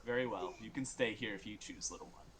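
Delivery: soft, low, indulgent king; gentle consent. Acted. King gives in to little one.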